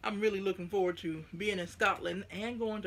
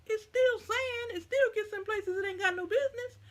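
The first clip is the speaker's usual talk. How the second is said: exasperated; 13 semitones higher, 3 dB louder than usual. Real, not acted. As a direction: dig in, fed up with sand. Exasperated rant about sand.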